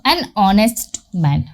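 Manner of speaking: slow, careful teacher read of an honest man; drawn-out classroom example; slow model phrase. Shown as a demonstration. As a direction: spell out "an honest man" slowly so students catch the an. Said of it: "teacher models the article".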